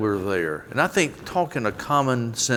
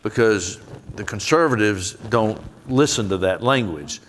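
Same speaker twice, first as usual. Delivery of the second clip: put-on Southern accent. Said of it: "I'm giving you my abridged Southern accent today".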